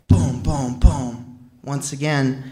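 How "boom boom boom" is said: imitated door knock. Narrator imitates police knocking on the door, soft. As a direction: tap out the knock with the voice, quietly. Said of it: "another knock at the door".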